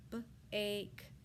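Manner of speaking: B, ache split into its onset and rime; sounded out. Shown as a demonstration. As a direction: break "bake" into "B" then "ache". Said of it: "What vowel sound do you hear in bake?".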